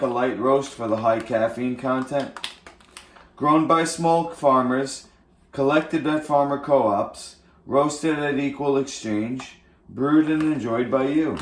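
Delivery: ad read. Pretend. Reading coffee bag.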